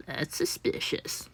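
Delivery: slow, hushed and suspicious; mock wary whisper. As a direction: breathe it out warily. Mocking doctor's wary tone.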